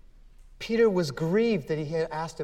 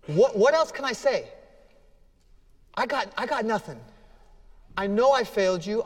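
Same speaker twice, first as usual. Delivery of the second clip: exasperated plea; 4 semitones higher than usual. Acted. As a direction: pour it out, exasperated and spent. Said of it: "I can feel this with Peter, exasperated".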